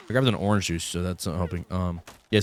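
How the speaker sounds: groggy just-woke-up voice; morning voice. Real, not acted. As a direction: sound like you just woke up. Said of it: "still got my early morning voice".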